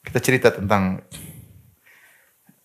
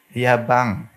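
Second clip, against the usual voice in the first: gentle. Shown as a demonstration. Preacher demonstrating a wife's gentle reply. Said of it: "harus halus".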